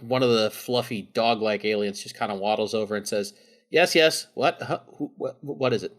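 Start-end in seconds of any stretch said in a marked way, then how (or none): 3.7-5.9 flustered alien. Acted. Flustered dog alien arrives.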